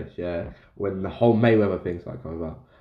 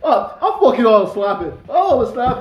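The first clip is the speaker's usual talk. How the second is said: shouting McGregor; 10 semitones higher, 6 dB louder than usual. Retold or imitated. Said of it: "And he's like".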